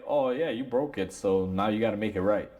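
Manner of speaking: laid-back, offhand accusation; relaxed customer shrugging off the blame; cool, casual attitude. Retold or imitated. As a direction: say it like it's no big deal. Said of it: "it's kinda like a cool attitude".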